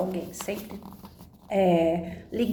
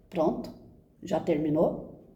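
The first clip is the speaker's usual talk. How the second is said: calm, dry doctor; 4 semitones lower, slower than usual. Retold or imitated. Doctor to crying patient, slow and unbothered. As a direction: lower and slow, patiently unimpressed. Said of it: "Mas calmo, reto".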